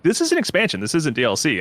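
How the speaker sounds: insistent, opening on a high note; adamant. Retold or imitated. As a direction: insist firmly that it is an expansion. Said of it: "C D Projekt was very adamant that".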